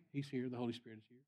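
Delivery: imitated preacher, fading to a soft close; subdued announcement. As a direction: let the proclamation settle into quiet. Same announcement repeated, settling down.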